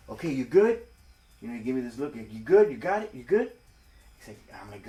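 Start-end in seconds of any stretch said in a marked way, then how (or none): 0.1-3.5 1 urgent check-in. Retold or imitated. Sergeant checks on him at drop-off.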